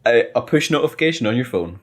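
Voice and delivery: salesman voice. Pretend. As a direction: pitch it like a keen salesman. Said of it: "get out of my salesman pitch".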